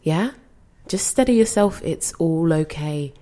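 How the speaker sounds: soothing. Acted. Calming a confused gran.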